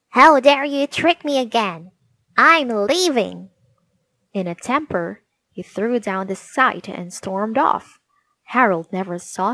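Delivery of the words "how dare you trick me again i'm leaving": loud, higher furious shout, slowing on leaving; gnome shouting. Acted. Gnome shouts at Harold before storming off, loud and high. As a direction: storm off bellowing. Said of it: "he shouted at Harold".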